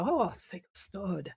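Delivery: French speaker. Retold or imitated. French server reacting to a wine order, French accent. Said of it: "So they'd say".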